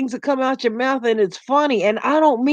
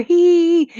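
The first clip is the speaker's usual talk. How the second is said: one high "hee"; single high mock laugh; imitated polite laugh; 7 semitones higher, 4 dB louder than usual. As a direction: mimic a small, high giggle. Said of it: "everybody else is like".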